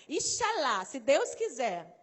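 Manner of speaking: IXALÁ loud and emphatic, then a slow gloss; loud, drawn-out Ixalá with a falling end; soap-opera intonation. Shown as a demonstration. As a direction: punch out Ixalá with theatrical intonation. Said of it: "entonação de voz".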